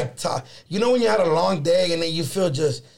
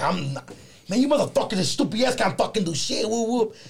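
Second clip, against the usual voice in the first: mock rant; 4 semitones higher than usual. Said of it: "going off on the poet".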